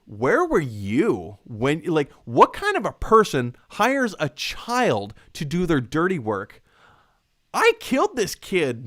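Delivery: dark Joker monologue. Retold or imitated. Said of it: "he goes down this dark dialogue".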